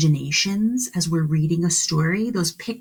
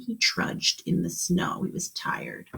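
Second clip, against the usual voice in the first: tired whisper; 5 dB quieter than usual. Shown as a demonstration. Teacher recalls the tired boy.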